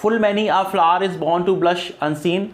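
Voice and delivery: very slow, line read out word by word; teacher reciting a famous line; slow recitation. Shown as a demonstration. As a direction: recite Full many a flower is born to blush unseen slowly. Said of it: "अब देखो".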